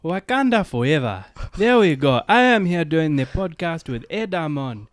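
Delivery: put-on playful African accent for the podcast; mock African accent. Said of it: "first I'll try and do African guy".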